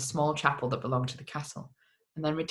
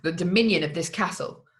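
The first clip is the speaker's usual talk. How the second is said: a raised, indignant cry; cried out; 3 semitones higher than usual. Acted. Monk to castle men, a raised indignant cry. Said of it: "cried the monk".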